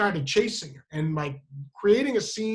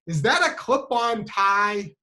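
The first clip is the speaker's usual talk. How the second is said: mock-incredulous, slow and higher; mocking question; 3 semitones higher, 4 dB louder, slower than usual. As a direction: drag the question out to tease. Girl mocks his clip-on tie.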